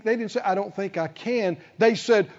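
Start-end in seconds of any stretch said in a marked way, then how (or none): 0.4-1.6 quietly hesitant, softer; a timid little doubt; gently unsure refusal; sweet, soft voice. Shown as a demonstration. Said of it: "They, they didn't say it in a sweet voice".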